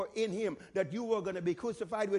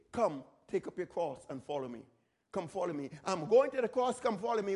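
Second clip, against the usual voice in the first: gentle Jesus voice; 5 semitones lower than usual. Retold or imitated. Jesus calling the disciples to the cross, low and tender.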